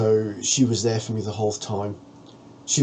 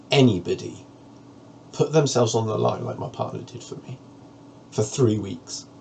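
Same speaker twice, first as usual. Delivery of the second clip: holding back tears; 3 semitones higher than usual. Real, not acted. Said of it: "so many of the tears".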